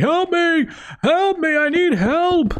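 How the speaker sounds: put-on scream. Retelling a stranger who came into a stream chat, retelling a scream. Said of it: "just started screaming".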